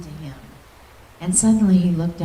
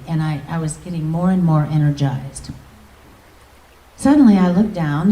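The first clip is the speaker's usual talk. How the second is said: normal talking voice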